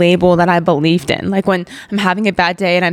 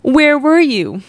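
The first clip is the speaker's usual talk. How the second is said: a slow, rising plea that climbs higher; crying out; 6 semitones higher, much slower than usual. Retold or imitated. Crying out to God over the painful memories, slow and rising. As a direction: ache it out toward heaven. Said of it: "I'm crying out to God".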